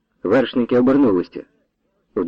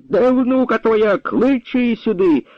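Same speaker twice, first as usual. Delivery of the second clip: high, slow, demanding bellow; bellowing like a madman; 10 semitones higher, slower than usual. A narrator's reading. Captain bellows at the old woman for her granddaughter. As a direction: roar out the demand without a greeting. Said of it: "зарепетував, мов оглашений".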